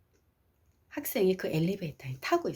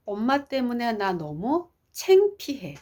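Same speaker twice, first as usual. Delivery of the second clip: slow, higher retold complaint; child confessing embarrassment; 4 semitones higher, slower than usual. Daughter telling mother her feeling, slow and higher. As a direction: spell the feeling out slowly as the child. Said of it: "아이가 스스로 말했어요".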